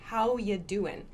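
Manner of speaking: "How ya doing" with you reduced to ya. Shown as a demonstration. Teacher showing the reduced ya. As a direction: let you slide into ya. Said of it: "I used ya instead of you".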